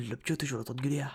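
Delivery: light imitation of a northern French accent from the uncle. Quoting the girl's uncle, a light northern French accent. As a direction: lightly put on Nord accent, half joking. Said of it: "Avec l'accent, l'accent".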